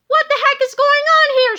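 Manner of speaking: high, loud angry yell; shout. Acted. Miss Singerbrains catching the boys, angry high shout. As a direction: bellow at the intruders. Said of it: "shouted Miss Singerbrains".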